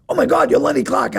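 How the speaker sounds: high, loud starstruck gasp; starstruck surprise. Retold or imitated. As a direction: recognize a celebrity. Bartender recognizing him.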